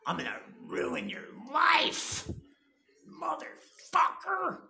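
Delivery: slow, breathy threat, voiced high and mocking; whispered mock threat; mock menacing whisper. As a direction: hiss a fake threat in an imitating voice. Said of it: "and says".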